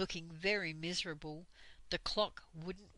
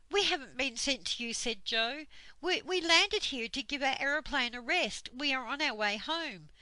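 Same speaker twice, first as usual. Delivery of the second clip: fast, higher, louder protest; flustered protest; 5 semitones higher, 5 dB louder than usual. Acted. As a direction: protest in a rush. Joe protests to Dame Slap.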